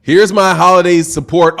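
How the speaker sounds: calmer, reined-in delivery; toned down. Real, not acted. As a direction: settle down and say it evenly. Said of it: "Let me try to tone my voice down".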